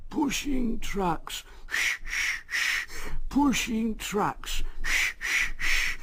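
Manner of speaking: high, slow grumbling engine chant with puffing; Henry grumbles along in rhythm, puffing. A narrator's reading. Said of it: "muttered to himself".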